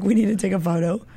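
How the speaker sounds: giggling while she tells of the photo; laughing. Retold or imitated. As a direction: say it through a laugh. Laughing through reunion story.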